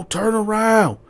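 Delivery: high, loud, slow commands; police commands. Retold or imitated. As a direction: spell out the orders. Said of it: "they shooting the commands out".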